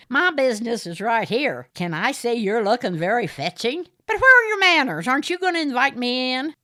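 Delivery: high, loud smarmy gentleman voice; fawning over Aideen, the smarmy caller; Morris, oily suitor. A narrator's reading. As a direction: purr it like a pushy suitor.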